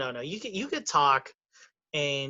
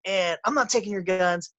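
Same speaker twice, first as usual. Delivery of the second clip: defensive denial; 4 semitones higher than usual. Retold or imitated. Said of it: "But he literally goes".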